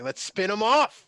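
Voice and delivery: loud, high, eager pitch; excited exec pitch. Pretend. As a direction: pitch it like a thrilled executive. Acting out studio execs.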